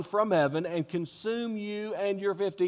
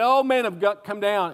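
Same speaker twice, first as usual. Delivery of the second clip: mocking; 4 semitones higher, 5 dB louder than usual. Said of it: "like he was mocking him".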